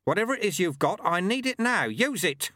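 high, loud urgent demand; urgent plea. A narrator's reading. Sweeper begging the boy to use his power, urgent. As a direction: push him to act now.

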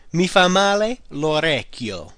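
slow, deliberate repeat. Shown as a demonstration. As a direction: repeat it slowly for learners. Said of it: "The ear does me bad".

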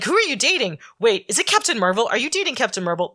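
mock excited kid interrogation; playful imitation of a prying kid; retold nosy questioning. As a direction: pepper them with eager questions, pitch jumping up. Retold nosy kid quizzing his mentor.

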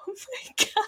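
high, laughing "Oh my God"; laughing quote. Retold or imitated. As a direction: laugh it out in disbelief. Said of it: "And I was like".

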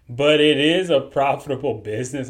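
straight face, the laugh almost breaking through; holding back a laugh. Real, not acted. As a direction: say it fighting off the giggles. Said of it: "I'm trying my best not to laugh".

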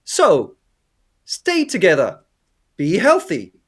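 lightly imitated narrator, short phrases with pauses; a hint of a DJ filling time between records; radio DJ narrator. Co-host mimics the narrator guy over the credits, lightly voiced radio DJ. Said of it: "it's like a radio D J".

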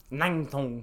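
loud bouncy made-up Asian-sounding words; fake foreign language. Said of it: "that sounded Vietnamese".

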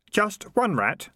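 high, slow, helpful prompting; lightly acted helpfulness. A narrator's reading. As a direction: offer it helpfully, pitched high. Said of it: "said Keith helpfully".

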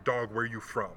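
a quick, easy "Dog, where you from?" run together; relaxed street greeting; imitating a friendly ask; casual question. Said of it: "the question changes when the tone changes".

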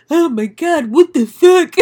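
high, loud, hammed-up alarm; mock-panicked squeal of shock; panicked puppies. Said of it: "the two puppies were like".

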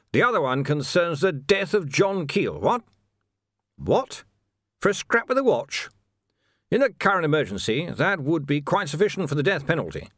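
pompous officer laying out a charge; blustering captain. Acted. Captain threatening a prisoner with the death penalty, blustering and high.

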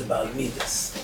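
soft-spoken מידס, ending in -es; Hasidic Ashkenazi pronunciation. Shown as a demonstration. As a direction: say מידס with a final s. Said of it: "או בהברה החסידית אשכנזית".

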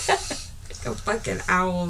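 laughing through the words. Real, not acted. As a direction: giggle it out.

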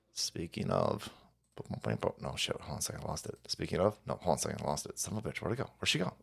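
very low, soft talk to self; distracted muttering. Real, not acted. To himself after he lost it, distracted muttering. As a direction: mumble it under your breath while searching.

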